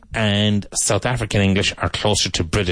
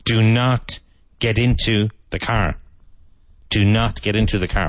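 angry emphasis, uncontracted. Shown as a demonstration. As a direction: stress the full do not, firm and annoyed. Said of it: "if you're angry".

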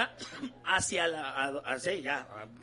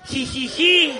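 mock giggle; 3 dB louder, much slower than usual. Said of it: "así teclean las mujeres".

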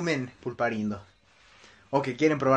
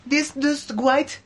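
hammed-up American tourist, higher and louder; American gringo accent; 10 semitones higher, 5 dB louder than usual. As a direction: gasp like a gringo influencer tasting Mexican candy. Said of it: "dilo como en acento gringo". (gringo exagerado sorprendido)

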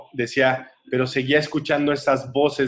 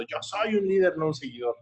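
imitated shout; 4 semitones higher, 5 dB quieter than usual. Narrator imitating the shouting girl, held-back mock yell. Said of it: "Y la chavita gritando".

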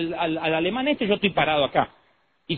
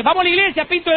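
mock invitation; 9 semitones higher than usual. Acting out inviting the paralysed man.

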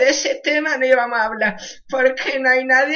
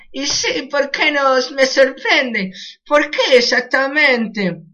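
proud father, lightly put-on Argentine accent; a touch of rioplatense swagger; slower than usual. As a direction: answer as a smug Argentine dad, mild accent. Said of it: "qué bien imito el acento".

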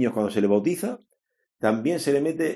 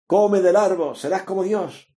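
tempting serpent; 7 semitones higher than usual. Retold or imitated. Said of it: "la serpiente".

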